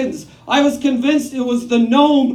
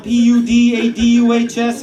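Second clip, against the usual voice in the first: mom spelling; 3 semitones lower, 3 dB louder than usual. Retold or imitated. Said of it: "How do you spell that, Mom?".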